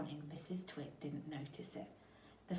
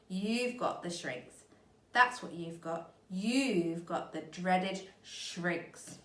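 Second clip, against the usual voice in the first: slow, louder gloating; gloating menace; 4 dB louder than usual. Acted. Mister Twit gloating slowly over his wife. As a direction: savour every word of the threat.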